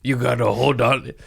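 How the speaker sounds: sarcastic cheerleader tone; mock motivational voice. Host mocking positive accounts that cheer him on. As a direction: parody upbeat Instagram pep talk. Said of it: "these positive fucking Instagram accounts".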